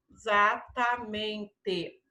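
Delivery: "exatamente" low and slow, in separate syllables. Shown as a demonstration. Teacher dictating for the Z column, "exatamente" slowly sounded out. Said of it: "Tem som de Z".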